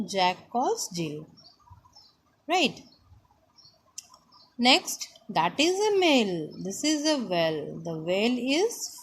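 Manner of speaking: sing-song lesson reading, pitch rising and falling; reading to children. Acted. Teacher reads the chapter to the class, sing-song. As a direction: read it out line by line, swinging the tune.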